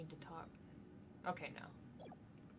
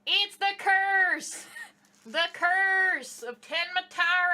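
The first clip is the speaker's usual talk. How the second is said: dramatic alarm; 7 semitones higher, 6 dB louder, slower than usual. Acted.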